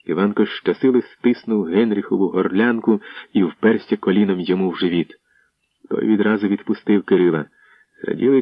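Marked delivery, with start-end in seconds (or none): none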